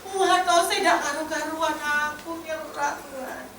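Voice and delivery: soft, slow, weepy prayer of surrender; a soft, slow, weepy voice breaking into surrender; tearful prayer. Retold or imitated. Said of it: "Dia menangis".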